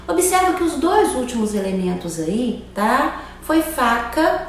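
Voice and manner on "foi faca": self-correction. Real, not acted. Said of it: "perdão, foi punhal e corda".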